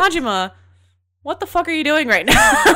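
high, loud, amused exasperation; exasperated disbelief. Retold or imitated. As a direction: confront him in mock disbelief, laugh creeping in. Retold reaction to Majima as cop.

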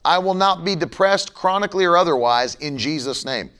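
usual speaking voice

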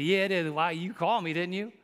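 mock retort to a phone caller; tactless retort. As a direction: answer back as if the question were silly. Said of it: "You gotta watch out how you".

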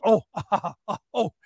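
laughing through a retold taunt; mocking laugh. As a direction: chuckle down at him while you talk. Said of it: "this guy looks at me and starts laughing".

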